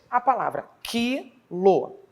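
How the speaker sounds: a palavra quilo dita devagar. Shown as a demonstration. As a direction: apresente quilo com calma. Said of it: "Exemplos disso". (a palavra quilo, bem pausada)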